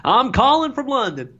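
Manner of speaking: bright high posh-London put-on accent; sudden British accent. Real, not acted. Guest answering where he's calling from, in a joke British accent. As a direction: toss off the line in a jokey British accent. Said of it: "I don't know why I did that accent".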